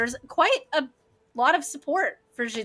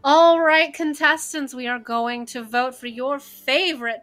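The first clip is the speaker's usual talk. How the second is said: host announcement; 3 semitones higher, 8 dB louder than usual. Acted. Host announces vote to contestants.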